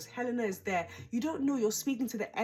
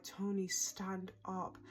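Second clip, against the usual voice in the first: stern telling-off; 5 dB quieter, much slower than usual. Acted. Telling Tony off at the screen.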